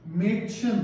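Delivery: "मेडशन" spoken clearly with a rise; German word demo. Shown as a demonstration. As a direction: model "मेडशन" for students. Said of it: "लड़की को German में क्या बोलते हैं". ("मेडशन" साफ़ उच्चारण में)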